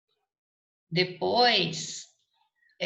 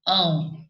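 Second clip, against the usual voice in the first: "ão" alone, firmly emphasised; single out "ão" as the stressed ending; stressed syllable isolated; 4 dB louder than usual. Shown as a demonstration. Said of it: "Sílaba tônica".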